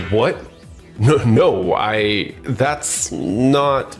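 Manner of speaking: startled, halting stammer; flustered denial. Acted. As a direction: stumble over a denial when caught out. Caught out by boss, stammers denial.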